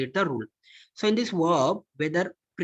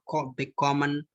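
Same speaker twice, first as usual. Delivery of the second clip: light "big", stress on "common" in "big common"; unstressed prefix. Shown as a demonstration. Teacher giving an example of prefix not emphasized, stem stress on "big common". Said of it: "wherever prefix is not emphasized".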